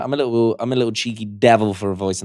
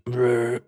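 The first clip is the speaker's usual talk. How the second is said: crusty growl; 5 dB quieter than usual. Shown as a demonstration. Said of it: "that crusty".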